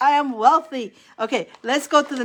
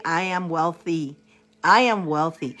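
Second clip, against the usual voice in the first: calm affirmation; 5 semitones lower than usual. Shown as a demonstration. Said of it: "And you're gonna say".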